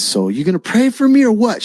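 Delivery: high, challenging retold voice; rough soup-kitchen lady. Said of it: "one of these rough soup kitchen ladies".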